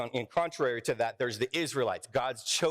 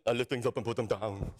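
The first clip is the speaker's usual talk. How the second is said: mock weightlifter; 5 semitones lower than usual. Preacher jokes while holding the dumbbell, mock weightlifter voice. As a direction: play a dim musclehead, lightly.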